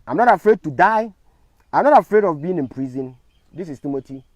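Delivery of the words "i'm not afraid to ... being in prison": defiant declaration. Real, not acted.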